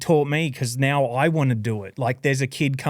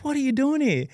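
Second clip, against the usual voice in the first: much higher woman's voice, amazed; surprised woman; 13 semitones higher than usual. Retold or imitated. Julie amazed to see him at the event, high woman's voice. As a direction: play her delight at finding him here, up high. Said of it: "And she's like".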